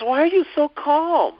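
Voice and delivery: high, slow, amazed woman's voice; startled woman. Retold or imitated. Woman rear-ended into calm asks in amazement. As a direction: play her disbelief, drawn out and up high. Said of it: "she goes".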